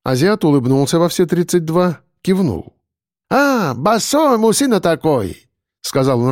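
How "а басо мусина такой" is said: slow, stretched syllables; drawn-out words. A narrator's reading. A smiling market trader greeting slowly, drawing out his words. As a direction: stretch each word lazily. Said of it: "растягивая слова".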